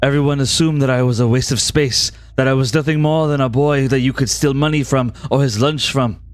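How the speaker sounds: put-on French accent. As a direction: soothe her in a French accent. Rando's voice continues.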